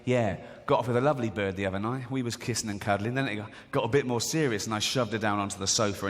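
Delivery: low-pitched, casual boasting; bragging bloke. Acted. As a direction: brag like a lad telling his mate. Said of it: "one of them's bragging".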